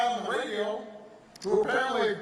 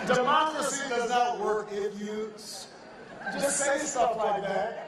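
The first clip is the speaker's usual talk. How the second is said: laughing; 3 semitones higher than usual. Real, not acted. Laughing at the demon claim.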